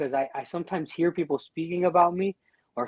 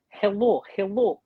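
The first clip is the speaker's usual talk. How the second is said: put-on raised-pitch Russian-accented greeting; mock Russian-accented hello; imitated Russian accent; 4 semitones higher than usual. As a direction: imitate locals trying English with a Russian accent. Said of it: "that's a good accent".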